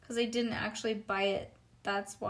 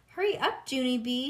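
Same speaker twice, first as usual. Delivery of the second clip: put-on high, loud, hurried child's voice; bossy little girl rushing her friend; urgent Lucille; 5 semitones higher, 5 dB louder than usual. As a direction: hurry up. Girl urging friend to hurry.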